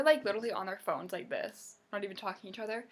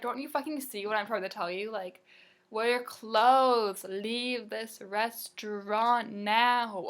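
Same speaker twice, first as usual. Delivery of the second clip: mock angry; 5 dB louder, slower than usual. Imagined yelling at customers.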